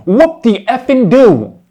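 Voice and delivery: loud, high, drawn-out sarcasm; slow, loud, derisive jeer; sarcastic dismissal. Real, not acted. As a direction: stretch it out in scornful mock celebration. Sneers at the mimicked boast.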